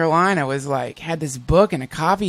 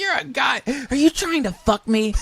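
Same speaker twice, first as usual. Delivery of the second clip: mock suspicious; 9 semitones higher than usual. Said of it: "You're just like".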